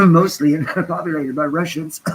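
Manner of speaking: high, loud, strained words squeezed between coughs; talking through coughs. Real, not acted. Streamer describing the town's residents, coughing through it. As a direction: push slowly through a coughing fit.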